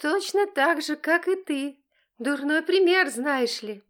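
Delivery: high, loud taunting jab; bratty defiant mockery; defiant sass. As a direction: throw his example back at him. Daughter defying father.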